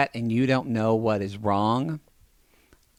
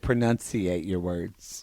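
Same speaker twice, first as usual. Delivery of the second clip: slow, lower mocking of the judge; mocking imitation; 7 semitones lower, 3 dB quieter, much slower than usual. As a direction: drag out the judge's word to mock it. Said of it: "Yes, he said".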